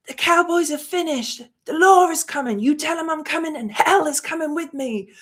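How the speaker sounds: mock gunslinger threat in a cowboy accent; imitated cowboy accent. Vlogger quoting Wyatt Earp's shootout line, light Western accent. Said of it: "sorry about that accent".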